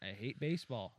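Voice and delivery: defiant declaration. Real, not acted. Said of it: "I'll fucking say it".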